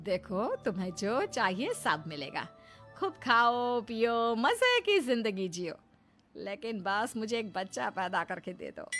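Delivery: lightly acted coaxing, softening at the end; coaxing family member. Someone bargaining for a child, coaxing. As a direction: coax with drawn-out, swooping words.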